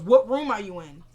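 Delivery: loud retold angry demand; mad. Mad boyfriend asking which hotel room, loud and angry. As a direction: imitate an angry man pressing for an answer. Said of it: "Benny's mad as heck".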